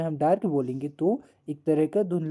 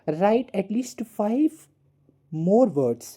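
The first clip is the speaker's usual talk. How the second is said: slow read-out; 4 semitones higher, 4 dB louder, much slower than usual. Shown as a demonstration. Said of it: "teacher reads the task slowly".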